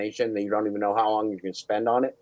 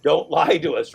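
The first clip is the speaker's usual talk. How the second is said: mock yelling; 5 semitones higher, 5 dB louder than usual. Mock interrogation continues.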